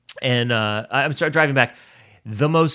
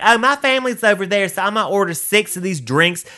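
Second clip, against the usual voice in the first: high, louder entitled-lady voice; mocking entitled customer; 8 semitones higher, 4 dB louder than usual. Mocking a customer ordering drinks for her family, high entitled voice. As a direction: ham up a pushy bar customer.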